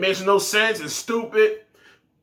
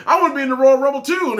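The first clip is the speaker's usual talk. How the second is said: mock whiny Ricochet; 5 semitones higher, 5 dB louder, faster than usual. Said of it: "And then Ricochet goes".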